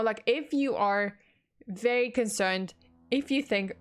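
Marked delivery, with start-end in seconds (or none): 3.1-3.7 talking through a burp; a burp breaks the words. Real, not acted. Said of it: "sorry, I just burped".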